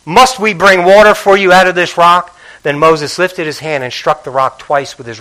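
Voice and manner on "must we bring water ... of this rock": louder, irritated question to the crowd; frustrated retort. Retold or imitated. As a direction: throw it back at them, fed up. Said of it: "He's upset".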